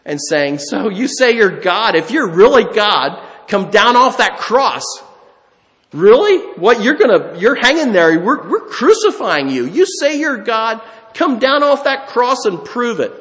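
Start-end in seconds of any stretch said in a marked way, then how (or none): 0.6-4.8 a mild mock sneer at the crucified man; mocking taunt. Pharisees jeering at Jesus on the cross, mildly mocking. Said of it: "that they're mocking him". 5.9-13.1 higher and louder, jeering challenge; loud mocking taunt. Pharisees daring Jesus to prove himself, loud jeering. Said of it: "that they're mocking him".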